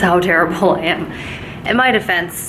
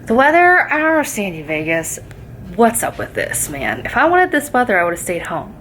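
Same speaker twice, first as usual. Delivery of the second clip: playfully griping at the weather; mock complaint. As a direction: fake grumble at Vegas. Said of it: "No, I'm just kidding".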